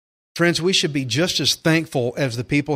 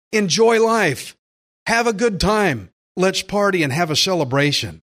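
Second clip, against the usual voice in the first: joyful invitation; 2 semitones higher than usual. Pretend. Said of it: "The Lord says".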